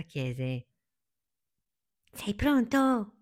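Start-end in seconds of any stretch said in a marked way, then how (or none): 2.1-3.2 high, drawn-out eager question; enthusiastic. A narrator's reading. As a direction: stretch it out with keen anticipation. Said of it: "Palmira, entusiasta".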